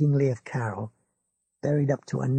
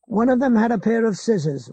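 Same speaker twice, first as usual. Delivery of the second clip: lightly raised, insistent; Ralph insisting; 7 semitones higher, 5 dB louder than usual. A narrator's reading. Ralph insists to his neighbour, mildly urgent. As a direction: press the point a touch higher.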